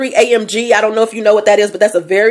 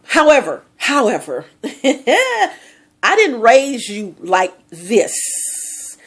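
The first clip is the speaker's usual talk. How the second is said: laughing; much slower than usual. Real, not acted. Laughing disbelief at daughter.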